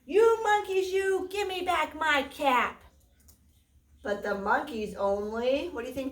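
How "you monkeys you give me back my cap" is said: angry demand. Acted. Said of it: "made the peddler very angry".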